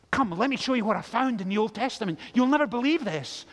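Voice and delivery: excitedly acting out a friend; quick, keen invitation to share a find; eager friend. Imagined friend eagerly showing a find.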